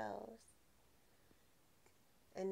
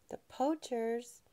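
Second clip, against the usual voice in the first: mock surprise; much slower than usual. Parent reacting to child's story.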